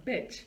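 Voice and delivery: "bitch" with a brief i; short quick vowel. Shown as a demonstration. Teacher shows mouth position for the word, short vowel. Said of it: "I is a quick sound".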